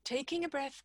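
ordinary delivery

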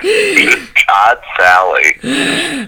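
a very high squeaky catchphrase of Brian; impersonating Brian. Retold or imitated. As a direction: pitch it way up as a mock of Brian.

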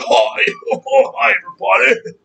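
high, bubbly YouTuber voice; squeaky fake-friendly greeting; mock YouTuber greeting. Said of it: "some faggot on fucking YouTube".

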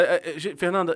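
usual speaking voice

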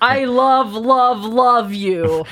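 book heroine's slightly odd declaration; lightly put-on voice, a bit lilting; odd character voice. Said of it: "I don't know why she sounds like that".

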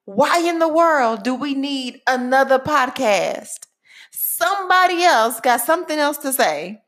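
mock the listener's eye-roll question; imitating a sceptical listener. Host mimicking a doubtful listener asking why another podcast. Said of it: "You are saying".

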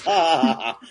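acted-out reader's chuckle, spelled out; put-on laugh at a joke; mock laugh. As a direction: fake a hearty ha-ha-ha. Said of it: "we get a laugh out of this".

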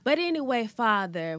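But anyway called out loud and high; loud preaching. Acted. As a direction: boom But anyway back into the prayer. Loud return to prayer.

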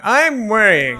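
loud, high, panicky protest; hammed-up teenage panic; frantic worry. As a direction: cry it out, exasperated and worried. Repeats worried protest, more frantic.

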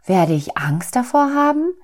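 high little soul, anxious question. A narrator's reading. Little soul asks God about darkness, high and worried. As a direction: ask in a small voice, rising at the end.

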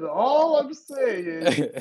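slow, stretched, choppy robot voice; imitating a glitchy voice. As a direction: mimic a lagging mic cutting out. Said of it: "all I heard C J says".

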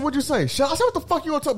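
retold confrontation. Father retelling confronting son.

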